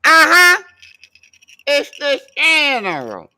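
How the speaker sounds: high, loud hype-man yell; General Froze impression.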